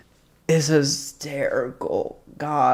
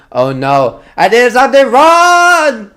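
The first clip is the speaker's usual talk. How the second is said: high, loud whiny puppy wail; mock-distressed doggy; 10 semitones higher, 10 dB louder than usual. Streamer playing a guilty dog for chat, high wail. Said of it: "did I do something wrong as a doggy".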